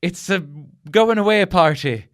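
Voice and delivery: loud, high slurred party excuse; a drunk woman blurting a flimsy cover story; drunken loud excuse. Retold or imitated. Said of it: "she's just sitting there like".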